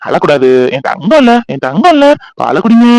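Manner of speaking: put-on baby talk. Father coaxing baby to drink milk, playful baby talk. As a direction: coax the little one with endearments.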